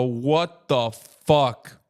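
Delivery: drawn-out stunned "what the fuck"; stunned passerby. Retold or imitated. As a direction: play a passerby frozen in disbelief. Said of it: "and go".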